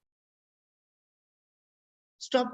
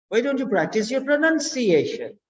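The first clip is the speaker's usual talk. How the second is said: high, rising swell on "pronunciation" then a drop; question intonation; 5 semitones higher than usual. Shown as a demonstration. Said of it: "when you are speaking in that accent".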